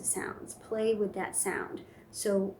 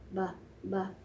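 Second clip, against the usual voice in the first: ba babble; 4 dB quieter than usual. Shown as a demonstration. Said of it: "becomes your ba".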